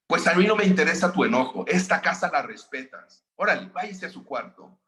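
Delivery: scolding mother. Retold or imitated. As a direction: send the boy to his room. Madre regaña y castiga. (una mamá que regaña y manda al cuarto)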